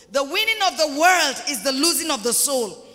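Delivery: "The winning of the world" repeated loudly, with full weight; emphatic preaching. Real, not acted. Preacher repeats his warning to the church, emphatic. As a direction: hammer "The winning of the world" home.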